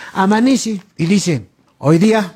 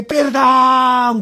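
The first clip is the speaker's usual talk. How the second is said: higher, drawn-out imitated wail; mock cry for mercy; 4 semitones higher than usual. People begging forgiveness in hell, drawn-out mock cry. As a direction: cry it out like the damned.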